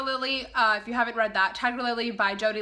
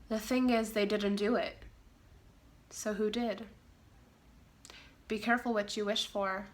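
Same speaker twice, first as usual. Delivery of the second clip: dramatic narrator voice; 4 dB quieter than usual. Shown as a demonstration. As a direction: read it like a creepy book trailer. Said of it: "gotta get my dramatic voice on".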